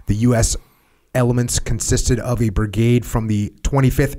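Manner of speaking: steady documentary reading; history narration read. Acted. Host reading the war history to listeners, documentary narration. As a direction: read the battle record like a narrator. Reads historical account aloud.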